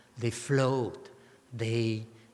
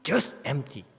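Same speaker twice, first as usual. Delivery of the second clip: "Just empty" set apart, with weight on "Just"; "Just empty" as an emphatic refrain, "Just" most prominent; emphatic stress; 2 semitones higher than usual. Shown as a demonstration. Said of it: "that's why it's so emphatic".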